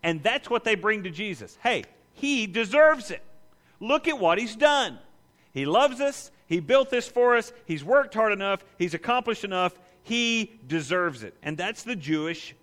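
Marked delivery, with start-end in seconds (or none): 1.6-11.3 a hint of earnest elders pressing their case; eager pleading elders. Elders pleading Jesus to help.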